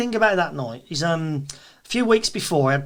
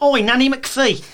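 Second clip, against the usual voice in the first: heckling shout; 9 semitones higher, 5 dB louder, slower than usual. Retold or imitated.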